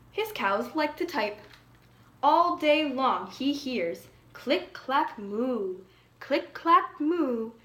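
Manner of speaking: put-on lively storybook reading for young listeners; reading to children. A narrator's reading. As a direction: read the picture book aloud to a class. Reads picture book to children.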